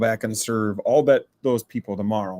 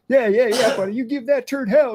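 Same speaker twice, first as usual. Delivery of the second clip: much higher, hammed-up cheering voice; mock encouragement from a toilet neighbor, pitched way up; Tom Arnold impression; 13 semitones higher, 3 dB louder than usual. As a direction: cheer on the guy in the next stall. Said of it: "He's like".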